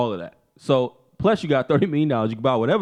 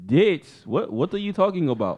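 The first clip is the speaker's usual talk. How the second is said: higher mock-baffled denial; defensive husband; 5 semitones higher than usual. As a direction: play innocent in a staged quarrel. Acted quarrel as defensive Conor.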